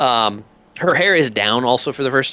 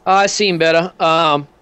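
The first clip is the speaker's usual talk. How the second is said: wounded commander; 7 semitones higher, 3 dB louder than usual. Acted. GM voices commander in bed.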